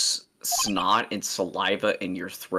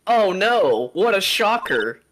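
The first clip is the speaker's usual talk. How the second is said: sarcastic; 10 semitones higher, 5 dB louder, slower than usual. Acted. Sarcastic mock shock.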